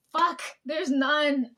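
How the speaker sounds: slow, drawn-out dismayed curse; dismayed groan. Retold or imitated. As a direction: let it sag out in disappointment. Self-quote, finding no cake.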